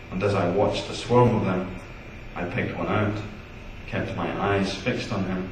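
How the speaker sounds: measured poem recital; poetry reading. Acted. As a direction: read it out to an audience, pausing at each line. Reads poem Giant aloud.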